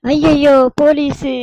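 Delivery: loud, high cry of alarm; hammed-up dread, pitched right up; panicked. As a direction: wail in comic panic. Passengers stopped by police, panic.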